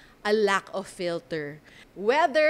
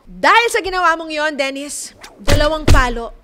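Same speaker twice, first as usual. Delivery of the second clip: loud, punchy call of the score; hammed-up game-show verdict; verdict shout; 3 semitones higher, 9 dB louder than usual. Real, not acted. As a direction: announce the penalty like a judge. Host hands out a verdict.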